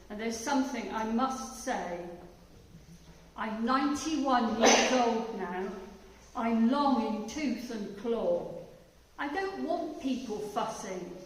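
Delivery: rhythmic reading of a comic poem. Acted. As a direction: read it as a grumpy old dad's rhyme. Reads poem in dad's voice.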